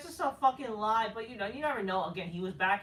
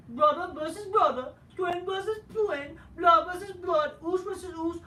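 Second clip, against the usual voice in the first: much higher, loud hyped-up wrestler promo; Jey Uso promo voice; 8 semitones higher, 4 dB louder than usual. Retold or imitated. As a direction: call out your twin brother like a cocky wrestler cutting a promo. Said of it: "Jey Uso comes and says".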